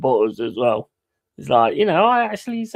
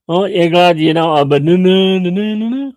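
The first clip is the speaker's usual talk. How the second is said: imitating the lad's punchline; 5 semitones higher, 6 dB louder than usual. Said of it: "That cracks me up".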